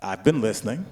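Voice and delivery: coolly condescending, each question lifted at the end; cold shade. Retold or imitated. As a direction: deliver cool shade as polite deduction. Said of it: "proceeds to emit cold shade".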